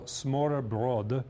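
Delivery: slow, careful attempt at a Danish accent; amateur Danish pronunciation, drawn out. Shown as a demonstration. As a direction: say it slowly in your best Danish accent. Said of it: "That's my best Danish accent".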